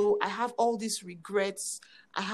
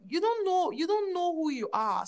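God's voice; 8 semitones higher than usual. Retold or imitated. God voiced in testimony.

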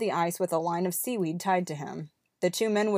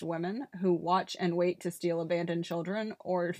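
silent laugh; 3 dB quieter than usual. Real, not acted. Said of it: "She's doing the silent laugh".

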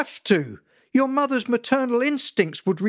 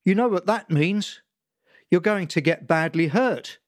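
ranting father; 4 semitones higher than usual. Acted. Father lecturing son about insurance, building tirade. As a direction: pile it on, gathering steam to a rant. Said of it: "He was picking up steam again".

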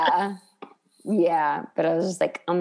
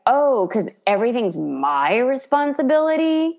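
higher mock indignant Monica; imitating Monica; 5 semitones higher than usual. Monica snapping at Rachel over the keys, higher mock voice. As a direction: play the put-upon host. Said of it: "she's like".

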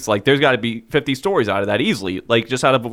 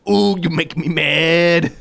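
mock angry caller; 3 semitones higher, much slower than usual.

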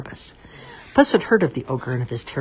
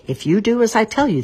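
scheming cat; 8 semitones higher, 5 dB louder than usual. A narrator's reading. Cat instructs his master.

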